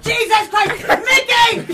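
high, very loud imitated holler; re-enacted shocked yell. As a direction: scream across the house at a husband. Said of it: "She starts yelling at my dad".

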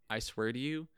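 ordinary talk

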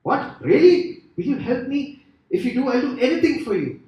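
high, excited bargaining, rushing into fast promises; hammed-up frantic begging, tumbling over the words; desperate pleading. Dangling man promises God anything for rescue, high frantic pleading.

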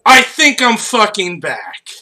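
emphatic movie hero impression; Keanu Reeves. Quoting John Wick's comeback line to co-hosts, emphatic actor impression. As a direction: punch out the film actor's defiant line. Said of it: "You do an amazing Keanu Reeves".

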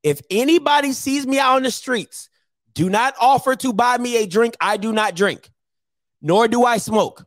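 straight-up announcement. Real, not acted. Host telling viewers not to buy him drinks, emphatic announcement. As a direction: lay it down firmly, phrase by phrase. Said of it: "I'm gonna say this straight up to the camera".

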